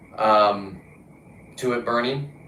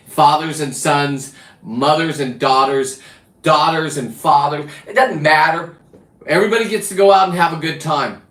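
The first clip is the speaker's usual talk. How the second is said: rousing sales pitch; 4 semitones higher, 5 dB louder than usual. Real, not acted.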